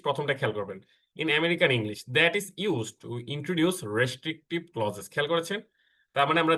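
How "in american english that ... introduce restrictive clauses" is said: slow slide reading. Shown as a demonstration. Reads rule off slide.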